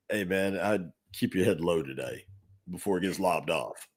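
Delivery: low, hushed word of warning. Retold or imitated. Coworker quietly warns the new car director, hushed. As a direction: lean in and warn him under your breath.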